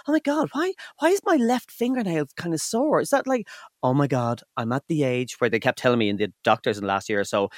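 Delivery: panicked inner voice. Retold or imitated.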